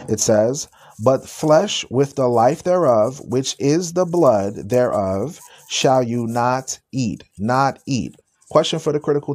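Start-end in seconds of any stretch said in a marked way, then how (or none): 1.0-7.2 slow, every word weighed out; slow deliberate reading. Shown as a demonstration. Preacher rereads the verse to the chat, slowly and deliberately. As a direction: read it again, slowly, so it sinks in. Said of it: "let's read it again".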